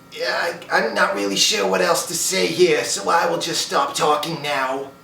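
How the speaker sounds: lightly voiced sitcom mother; Howard's mother. Impressionist running out of things to say, Howard's mother voice. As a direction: keep a hint of the mother voice. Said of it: "basing it off Howard's mother".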